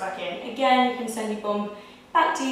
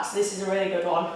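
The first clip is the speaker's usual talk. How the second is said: talking while out of breath; winded, catching breath between words; 2 semitones lower, faster than usual. Real, not acted. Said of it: "I'm actually out of breath".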